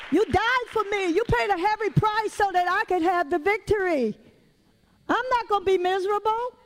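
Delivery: lifted, rising praise to Jesus; triumphant declaration. Pretend. Preacher voicing a believer claiming victory, fervent. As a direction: pull yourself up with fervor. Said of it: "pull up out of it".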